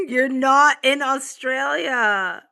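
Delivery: slow, laughing disbelief. Real, not acted. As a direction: laugh through the words. Laughing at commenter.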